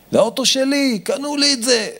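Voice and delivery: high-pitched possessive whine; angry child. Acted. Child refusing little brother the toy car, high angry protest. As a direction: protest like a kid guarding a toy. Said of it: "הילד כועס".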